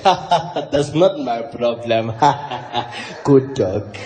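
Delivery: deep, drawn-out amused dismissal; Jacob Zuma. Acted. Zuma laughs off the chewed shoes, very low lazy mock voice. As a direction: brush it off slowly with a big low chuckle. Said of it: "Jacob, Jacob".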